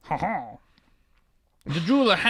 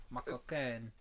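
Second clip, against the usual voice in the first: stuck in French; 7 semitones lower, 19 dB quieter than usual. Shown as a demonstration. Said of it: "I'm stuck in French".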